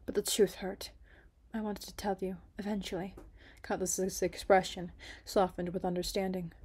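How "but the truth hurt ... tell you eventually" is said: soft whispered regret; regretful whisper. Acted. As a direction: whisper the confession, full of regret. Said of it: "her voice heavy with regret".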